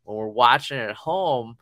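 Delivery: lightly imitated gentle parental talk; mild retold dad reprimand; dad's four-year-old speak. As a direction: explain patiently to a small child. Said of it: "I had to put this in four-year-old speak".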